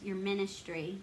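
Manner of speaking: scare quotes. Retold or imitated. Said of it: "and it was put in quotes".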